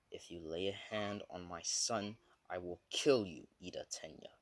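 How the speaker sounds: mildly menacing, understated threat. Acted. Midnight threatens Ida over her son, mildly menacing. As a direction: deliver a scary warning with restraint. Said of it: "menacingly scary-ass voice".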